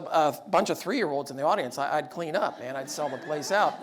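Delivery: normal talking voice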